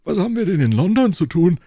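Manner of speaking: indignant outburst. Acted. Porthos protests, astonished.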